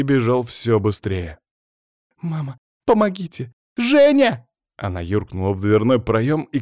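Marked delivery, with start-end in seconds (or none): 2.2-4.5 calling for help. Acted. Girl fleeing monster calls help.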